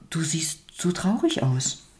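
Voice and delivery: softly half-whispered remark; hushed, tactful storybook voice; gentle observation. A narrator's reading. Old woman gently names the sadness.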